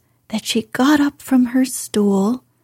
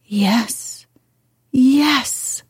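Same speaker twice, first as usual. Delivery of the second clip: almost whispered; 4 semitones higher than usual. A narrator's reading. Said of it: "he almost whispered his answer".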